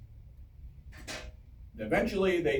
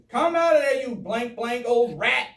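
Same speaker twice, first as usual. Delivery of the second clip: high, loud mock shout, stretched at the end; acted shouted demand; 7 semitones higher, 6 dB louder than usual. Officer ordering the enemy out of the fort, shouting. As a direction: holler it like a comic retold challenge.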